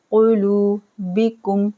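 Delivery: कुलूबिकुम with लू drawn and कु short; slow recitation; long lu. Shown as a demonstration. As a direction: stretch लू in कुलूबिकुम. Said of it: "लू को खींचना है".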